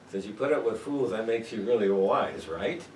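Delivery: mock praise for putting up with fools; sarcastic teacher paraphrasing Paul. Shown as a demonstration. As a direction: say it dry, as a backhanded compliment. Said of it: "And so he's being sarcastic".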